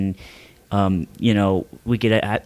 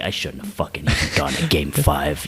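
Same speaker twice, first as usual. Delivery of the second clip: lower, muttered grumble of a sore winner; lower, grumbling mock of Ice; imitating angry Ice; 9 semitones lower than usual. Buddy mimics furious player Ice to friends, low mock grumble.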